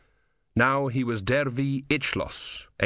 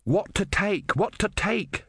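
shouted; 10 semitones higher, slower than usual. A narrator's reading. Ern choosing books to carry, high-pitched shout. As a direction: call it out high, in character. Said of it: "shouted Ern".

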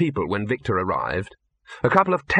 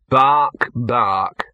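dog barking; 5 dB louder than usual. A narrator's reading. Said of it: "he corrected himself".

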